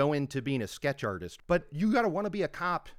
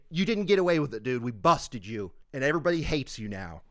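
gloating; 3 dB louder than usual. Pretend. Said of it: "I'd say".

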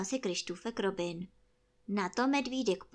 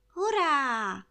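loud, higher hurrah; shouted cheer; 5 semitones higher, 7 dB louder than usual. A narrator's reading. Boy cheers as his friend floats up, shouted. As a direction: cheer it out with a drawn-out ending. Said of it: "křičel Krištůfek Robin".

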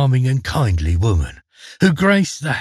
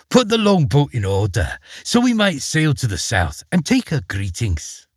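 forced sweet wife; 2 semitones higher than usual. Acted. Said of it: "forced a pretty smile".

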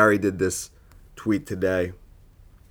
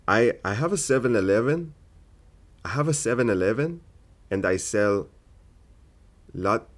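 put-on Indian accent. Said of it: "I'm not doing a good Indian today".

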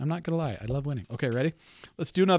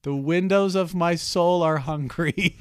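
hopeful guess; 6 semitones higher, 9 dB louder, slower than usual. Pretend.

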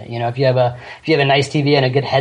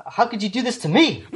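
mocking shout; 8 semitones higher than usual. Mimicking co-host's complaint.

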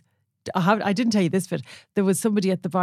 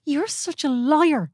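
slow, higher playful "liar"; teasing accusation; 7 semitones higher, much slower than usual. Real, not acted. Wife teasing husband about the stare, slow mock outrage.

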